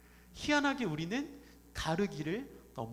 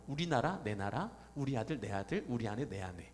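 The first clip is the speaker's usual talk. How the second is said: normal talking voice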